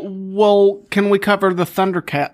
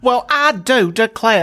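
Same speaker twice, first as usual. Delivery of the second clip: southern belle; 5 semitones higher, 3 dB louder, slower than usual. Pretend. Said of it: "the old South".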